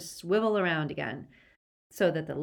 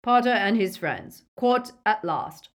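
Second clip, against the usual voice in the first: building, emphatic announcement; mildly exultant reveal; Lucius's triumphant cry; 3 semitones higher, 6 dB louder than usual. A narrator's reading. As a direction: relish the capture, ending louder. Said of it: "cried Lucius".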